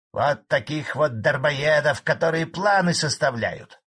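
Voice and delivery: громче, злой старик переходит на ты; выпали злобно; от злости. A narrator's reading. (старик в злости тыкает председателю)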